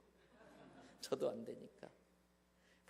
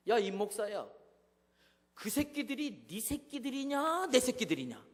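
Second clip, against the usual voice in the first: voice of God; 5 semitones higher, 7 dB louder than usual. Retold or imitated. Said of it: "하나님 그러시는 거예요".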